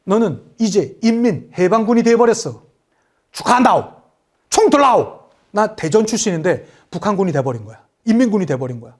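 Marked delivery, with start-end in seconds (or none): 0.0-5.2 lightly acted North Korean conscription order; mock northern officer, short commanding phrases; a hint of an armed northern recruiter; North Korean soldier. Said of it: "총 갖다 대면서".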